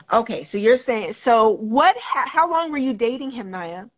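glitchy metallic voice from a bad connection; robotic voice. Real, not acted. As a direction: voice breaking up like a robot on a call. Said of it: "you sound robotic".

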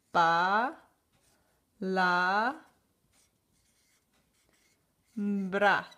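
palabra split into Pa, la, bra with long pauses between; syllable by syllable. Shown as a demonstration. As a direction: sound out Pa, la, bra slowly. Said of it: "Vamos a escribir palabra". (separa palabra en sílabas despacio)

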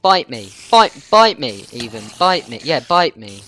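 loud, punchy bite me challenge; daring taunt. Real, not acted. Player daring a monster to attack, loud taunt.

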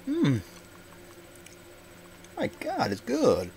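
talking while eating; chewing. Real, not acted. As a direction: mouth full of chocolate. Seen 1: Bites bar at -1, closed working mouth, then talks.

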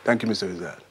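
put-on brisk Jamaican-accented report; easy, matter-of-fact Jamaican voice. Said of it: "I can do a Jamaican accent".

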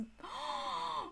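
soft gasp breaking off the sentence; low-key gasp of surprise. Real, not acted. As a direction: draw in a quiet, startled breath. Reaction mid-sentence to scene.

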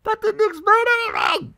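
loud, high exasperated outburst; exasperated shout. Real, not acted. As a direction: yell it in disbelief. Frustrated outburst at game.

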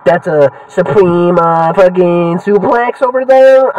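mock commentator. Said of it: "I'm not like".

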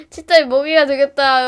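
put-on boy playfully wailing to friends. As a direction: shout it in play despair. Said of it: "하면서".

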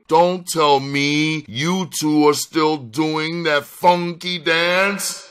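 slow, high-pitched disbelief; incredulous, scornful question; disgusted. A narrator's reading. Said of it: "stared at the two women in disgust".

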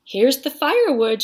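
high, loud happy shout; excited shout. A narrator's reading. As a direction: shout it out proudly. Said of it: "shouted Jack".

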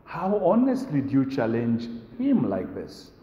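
protesting listeners. Retold or imitated. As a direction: plead that it is unfair. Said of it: "all of us obviously are saying".

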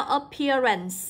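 "appearance" drawn out, stressed on PEAR; nhấn âm hai. Shown as a demonstration. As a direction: lean on the ear sound in "appearance". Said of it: "cũng sẽ nhấn vào số hai". (đọc chậm "appearance", nhấn vào "pear")

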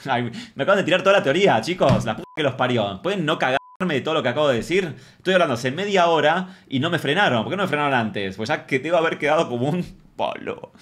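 high-pitched, indignant complaint; worked-up, half-amused venting; exasperated outburst. Real, not acted. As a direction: protest at being left to look foolish. Exasperated that nobody stopped their theory.

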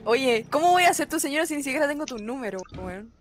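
ordinary talk

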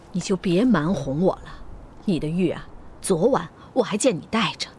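usual speaking voice

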